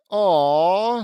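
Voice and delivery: loud, drawn-out mock "aw"; group "aw". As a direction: coo a long "aw" like a whole crowd. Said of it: "says everyone".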